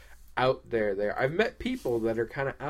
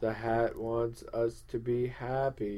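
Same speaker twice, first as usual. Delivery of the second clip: mind-controlled hat follower; 4 dB quieter than usual. Pretend. Devotee contradicts doubting co-host, mind-controlled. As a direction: chant it evenly, as if brainwashed. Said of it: "complete and total mind control".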